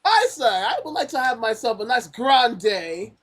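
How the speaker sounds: slow mock posh British accent; a Brit ordering coffee, drawn out. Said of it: "best posh British accent".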